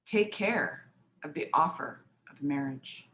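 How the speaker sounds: measured poem reading with long pauses; poem recitation. Acted. Poet reading to listeners about an offer of marriage, measured recitation. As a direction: set out each image, then pause.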